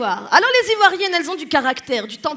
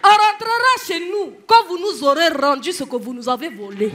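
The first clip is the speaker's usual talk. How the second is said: put-on declamatory Ivorian accent; hammed-up righteous Ivorian retort; outraged Ivorian mama; 3 dB louder than usual. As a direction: hurl the comeback like an indignant Ivorian mother. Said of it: "il y a une maman ivoirienne".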